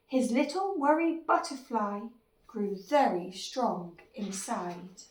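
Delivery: expressive, measured picture-book read; children's story narration. A narrator's reading. Narrator tells how the worry grew inside, storytelling. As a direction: lilt through it for young listeners.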